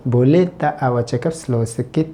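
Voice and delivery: very slow, each word laid out for learners; slow, careful Malay for students; slow teaching demo. Shown as a demonstration. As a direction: spell it out slowly so a beginner can follow. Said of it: "teacher repeats Malay phrase".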